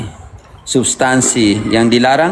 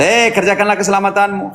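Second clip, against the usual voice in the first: urgent exhortation; 9 semitones higher than usual. Real, not acted. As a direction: call them to action on a raised pitch. Preacher exhorting listeners with a verse. (desakan berkhotbah dengan nada tinggi)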